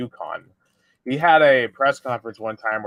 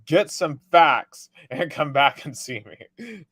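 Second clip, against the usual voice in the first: slow, higher, firm telling-off; mock angry retort; 4 semitones higher, slower than usual. Coach snapping back at the reporter, mock anger. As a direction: put the reporter in his place. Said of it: "he just went off on this report".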